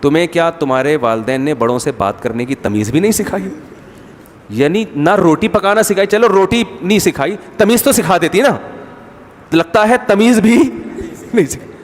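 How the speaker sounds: taunting mother-in-law. Retold or imitated. Mother-in-law questioning the bride's manners, taunting. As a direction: pile up the mock scolding. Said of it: "ساس پھر جواب میں کہے گی".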